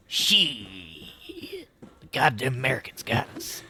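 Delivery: mock a Cold War Soviet in a put-on Russian accent; playful mock Russian accent as a sneering Soviet. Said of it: "Which I don't know why I gave them that accent".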